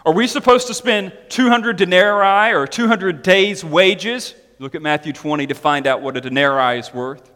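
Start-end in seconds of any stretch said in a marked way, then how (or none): 0.1-4.4 a touch of scoffing disbelief; sarcastic. Retold or imitated. Disciples scoffing at Jesus' request, mild sarcasm. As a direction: toss the question back mockingly. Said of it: "They reply with sarcasm".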